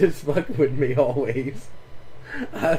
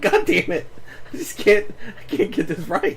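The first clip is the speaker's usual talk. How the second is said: frustrated; 7 semitones higher than usual. Retold or imitated. Retold frustration at getting it wrong.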